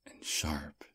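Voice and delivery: breathy intimate whisper, close to the ear. Acted. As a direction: lean in and whisper it.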